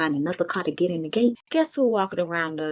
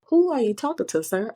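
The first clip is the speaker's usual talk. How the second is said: sassy retort; 4 semitones higher than usual. Retold or imitated. Retold scolding of her man.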